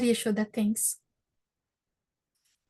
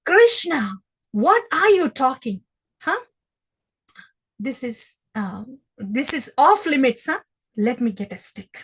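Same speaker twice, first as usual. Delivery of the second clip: angry mother; 6 dB louder than usual. Acted. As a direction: threaten him with a stick. Yashoda threatening with stick.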